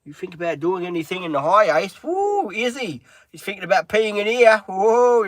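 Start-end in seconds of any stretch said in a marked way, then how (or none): 2.0-5.2 raised, higher voice calling out to the dog; sharp call to stop the dog peeing. Real, not acted. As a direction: call the dog off, loud and high. Scolding dog peeing in van.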